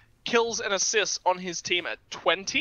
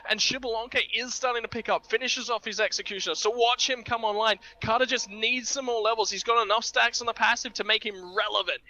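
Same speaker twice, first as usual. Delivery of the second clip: brisk, punchy live commentary; esports play-by-play. Acted. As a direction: call the game with urgency.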